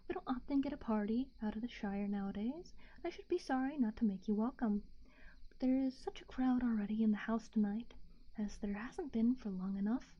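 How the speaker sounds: hushed bedtime story narration; whispered story reading. A narrator's reading.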